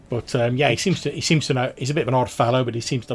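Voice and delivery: lightly nasal odd hireling; a touch of nasal farmhand voice. Acted. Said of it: "in a bit of a nasal voice like this".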